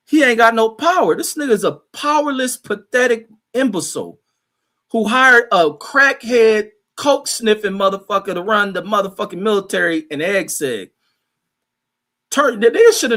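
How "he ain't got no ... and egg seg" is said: high-pitched, indignant tirade; exasperated rant. Real, not acted. Host rants about powerless leadership, exasperated and high. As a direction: rant in disbelief, pitch raised. Ranting against Trump and his pick.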